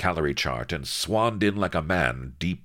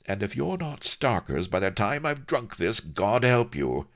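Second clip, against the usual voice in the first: playful threat; 8 semitones higher than usual. A narrator's reading. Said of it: "she added playfully".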